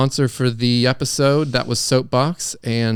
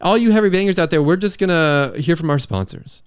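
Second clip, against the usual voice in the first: quicker, higher hype intro; punchier host intro; 5 semitones higher than usual. Shown as a demonstration. Host retaking the intro, faster and higher. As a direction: fire up the heavy bangers fast. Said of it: "one more time".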